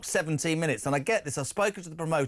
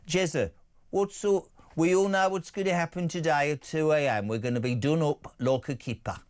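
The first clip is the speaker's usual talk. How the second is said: a rough attempt at a Brummie accent; deliberately crap Brummie accent; Birmingham accent. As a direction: read the listener's text in a bad Brummie accent. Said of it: "It was a crap accent".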